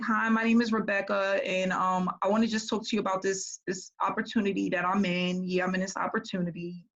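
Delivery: mimicking a bored, blah sales pitch; lightly mock a lifeless recruiter intro; no enthusiasm. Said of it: "And she was so blah".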